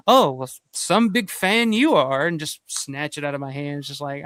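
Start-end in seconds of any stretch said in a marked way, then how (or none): 0.1-2.3 sneering. Retold or imitated. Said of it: "but just that".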